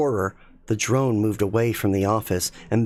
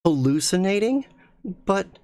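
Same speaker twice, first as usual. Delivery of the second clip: disbelieving; 8 semitones higher than usual. Acted. Rachel disbelieving.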